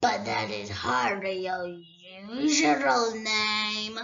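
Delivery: a great dragon toying with a thief; dragon Smaug. Acted. Smaug answers.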